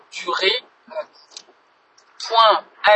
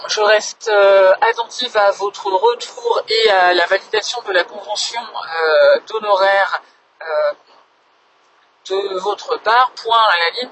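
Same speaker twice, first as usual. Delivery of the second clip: dictating. Real, not acted. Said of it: "je vous fais une petite dictée".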